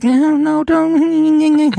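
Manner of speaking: high, anxious pleading mother voice; worried mother. Retold or imitated. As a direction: squeak out a frightened mother's plea. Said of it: "that's when my mother's like".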